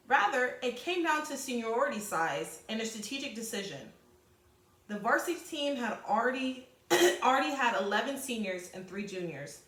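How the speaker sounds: steady read-aloud voice for the class. Acted. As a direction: read the passage clearly to students. Teacher reads passage aloud.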